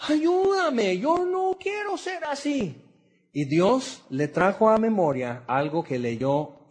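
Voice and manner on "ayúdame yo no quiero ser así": much higher, pleading cry to God; imitating a desperate prayer; retold desperate plea. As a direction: beg for help, voice straining upward. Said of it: "él gritaba a Dios".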